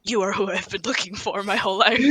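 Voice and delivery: softly, in breathless awe; hushed devoted confession; awed hush. Acted. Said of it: "he looks up at both of you and goes".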